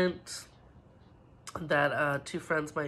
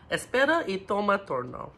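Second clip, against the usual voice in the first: quicker take; 4 semitones higher, 4 dB louder than usual. Shown as a demonstration. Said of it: "let's say it a little bit quicker".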